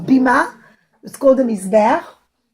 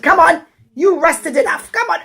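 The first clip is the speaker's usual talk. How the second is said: impatient urging; 4 semitones higher, 4 dB louder than usual. Acted. Rich man pushing stubborn cow.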